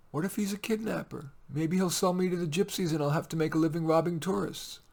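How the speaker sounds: lightly voiced little girl. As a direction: ask like a small anxious child. Child Leah voiced.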